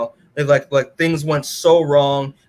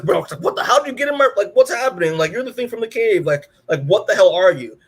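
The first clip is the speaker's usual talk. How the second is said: higher, startled and confused; baffled outburst; 5 semitones higher than usual. Acted. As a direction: react like a stranger just appeared in your room. Mark confronting the blue being.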